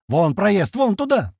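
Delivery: urgent cry climbing high; shouted directions. A narrator's reading. Navigator pointing out the passage, urgent shout. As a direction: call out the way, rising in pitch. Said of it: "снова кричит Полукед".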